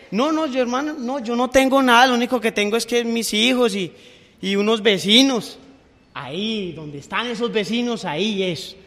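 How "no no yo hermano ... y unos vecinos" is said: higher pitched pleading believer making excuses; whiny excuse. Acted. Preacher voicing a believer who claims to have nothing, higher pleading. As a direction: whine that you have nothing to give.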